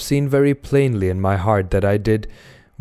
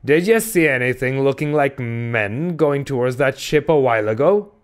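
put-on higher-pitched, prying old-salt voice; mysterious stranger; 4 semitones higher than usual. A narrator's reading. Stranger clapping a sailor's shoulder, asking in high voice. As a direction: ask it as a strange, knowing prophet.

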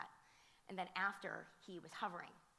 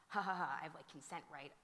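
joking mock laugh. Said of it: "this is how he said it to me".

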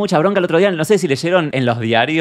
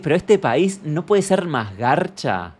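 exasperated; much slower than usual. Retold or imitated. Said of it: "te da bronca".

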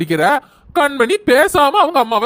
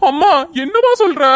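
shocked; 6 semitones higher than usual. Acted. Son shocked at news.

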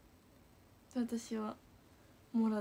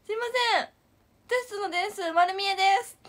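higher and louder, bright and urgent; eager call-out; 8 semitones higher, 5 dB louder, faster than usual. Retold or imitated. Girl excitedly telling the teacher the scores are visible. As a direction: blurt it out to the teacher in front of everyone. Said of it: "みたいな感じで言ったんです".

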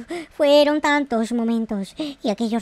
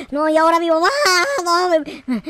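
whiny lament; 3 semitones higher than usual. Real, not acted. Fears mom's reaction.

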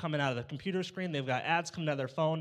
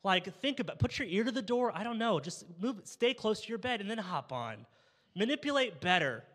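exasperated dad; 4 semitones higher than usual. Retold or imitated. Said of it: "'Cause I'm like".

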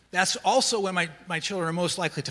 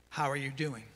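soft, low, careful question; gently checking in; 4 semitones lower, 6 dB quieter than usual. Acted. Camp leader checking on a child from trauma, gently. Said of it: "we're asking permission".

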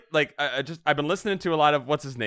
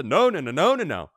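imitating emphatic no; 3 semitones higher, 4 dB louder than usual. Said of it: "cut out the".

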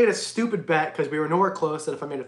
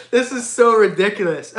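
laughing; 3 semitones higher, 3 dB louder than usual. Real, not acted. Stream donations pour in.

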